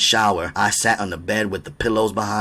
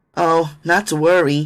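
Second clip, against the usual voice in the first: nervous chuckle, raised pitch, drawn out; 9 semitones higher, 5 dB louder than usual. A startled woman answers the narrator's apology, nervous chuckle. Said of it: "she chuckled nervously".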